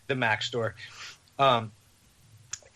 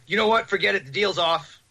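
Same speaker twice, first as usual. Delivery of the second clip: imitated irate man; 6 semitones higher than usual. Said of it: "irate gentleman".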